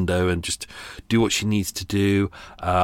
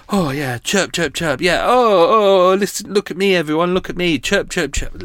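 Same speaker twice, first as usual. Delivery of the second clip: high chirpy bird voice, showing off; mock the bird chirping, higher and louder; parakeet chatter; 8 semitones higher, 4 dB louder than usual. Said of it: "it's like".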